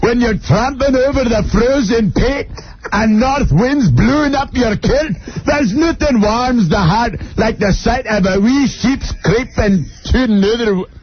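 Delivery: lightly put-on Scottish accent. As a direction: read the ad in a hint of Scottish brogue. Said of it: "If you do a good Scottish accent, you gotta read that".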